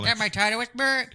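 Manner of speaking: high, put-on Asian accent; mock Asian accent. Joining in the golf joke, in a mock Asian accent. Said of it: "no more fun voice to make".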